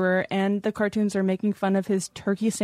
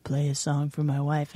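horny older caller, lightly voiced; 5 semitones lower than usual. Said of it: "horny older guys would call in".

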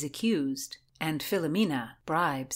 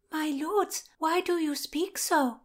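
much higher lady's voice; Christina; 10 semitones higher than usual. A narrator's reading. Christina questions the lords, high-pitched.

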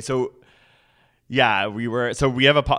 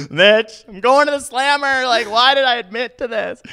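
loud, high-pitched retold panic; mock panic; 13 semitones higher, 6 dB louder than usual. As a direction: blurt it out in exaggerated alarm, high and loud. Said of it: "I was so scared".

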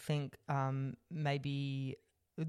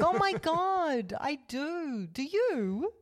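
higher, louder, gushing with a laugh; mock gushing; 11 semitones higher, 6 dB louder, much slower than usual. Answering the podcast recorders, gushing excitedly. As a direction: squeal it like a thrilled superfan. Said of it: "I'll be like".

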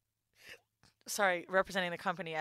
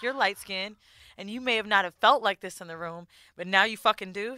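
retold blunt coworker; 7 dB louder than usual. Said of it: "She was like".

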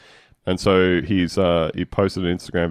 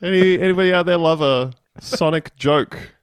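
high, louder laughing comic voice; mock stand-up; 9 semitones higher, 3 dB louder than usual. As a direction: work the crowd like a hack comedian.

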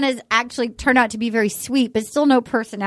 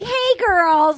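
excited; 7 semitones higher than usual. Retold or imitated. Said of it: "all excited".

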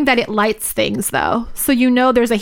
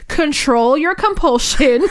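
higher, slow, drawn-out command; mock stern scolding; 6 semitones higher, slower than usual. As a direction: scold with amusement, stretching it out. Retelling own scolding of relative.

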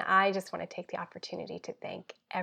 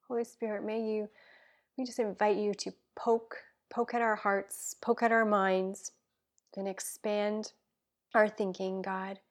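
earnest spoken prayer, dropping to a hush at times; heartfelt prayer; slower than usual. Acted. Guest praying for listeners, earnest prayer voice. Prays aloud on podcast.

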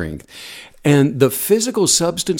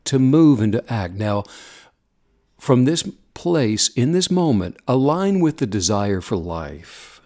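guided meditation. Acted. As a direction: gently guide them into stillness.

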